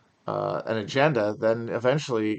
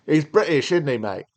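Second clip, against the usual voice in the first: put-on British accent; 4 semitones higher, 4 dB louder than usual. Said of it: "He sounds like that".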